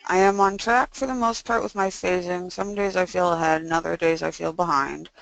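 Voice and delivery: stiff jaw, mouth barely opening; speaking after jaw surgery. Real, not acted. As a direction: talk with stuff still in the mouth. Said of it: "so that's why I sound this way".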